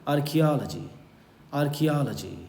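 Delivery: teacher's careful model of "archaeology", hard k; model pronunciation. Shown as a demonstration. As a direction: say "archaeology" as ar-kee-AL-uh-jee. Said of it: "इसको पढ़ेंगे हम लोग".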